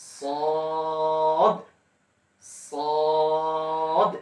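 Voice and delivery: সদ thick and heavy with an echo bounce on the end; Arabic letter saad. Shown as a demonstration. Teacher demonstrating সদ with a qalqala echo. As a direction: make সদ full and heavy, the final d bouncing back. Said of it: "একটু প্রতিধ্বনি সৃষ্টি করতে হবে".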